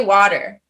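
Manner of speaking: "water" said the American way; American pronunciation. Shown as a demonstration. Coaching the cohost on the next word, American "water". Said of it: "and then say".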